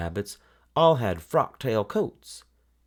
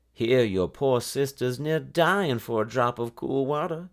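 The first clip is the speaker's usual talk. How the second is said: a higher, scolding mother's yell, held back; hammed-up scolding cry, pitched up; mock scream; 5 semitones higher than usual. Mother scolding daughter over the warm water, mild mock scream. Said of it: "her mother screamed".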